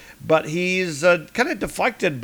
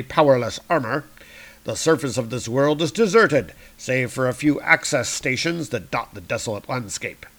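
lightly voiced scheming villain; Doctor Doom monologue. Doom narrating his plans to himself. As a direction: read it as a proud armored tyrant. Reads Doom's inner monologue.

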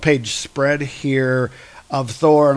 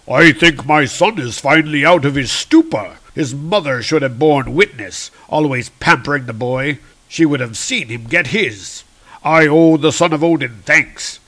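voiced father god.

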